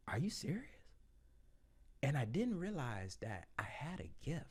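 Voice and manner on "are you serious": breathless amazed whisper; stunned whisper. Retold or imitated. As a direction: whisper it in disbelief. Stunned reaction to praise.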